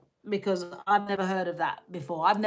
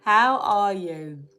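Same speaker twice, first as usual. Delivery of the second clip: slow, louder, stretched-out question; drawn-out greeting; 7 dB louder, much slower than usual. Real, not acted. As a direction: stretch each word of the greeting. Greeting repeated, slowed right down.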